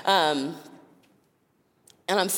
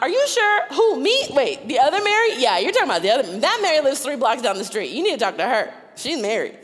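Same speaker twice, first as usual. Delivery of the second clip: high, loud, flustered objection; panicked protest; 6 semitones higher, 4 dB louder than usual. Retold or imitated. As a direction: squeal it out in disbelief, talking fast. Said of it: "which would have been mine, was not".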